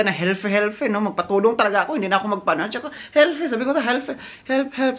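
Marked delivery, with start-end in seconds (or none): 4.5-5.0 mock call for help. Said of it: "sabihin ko talaga".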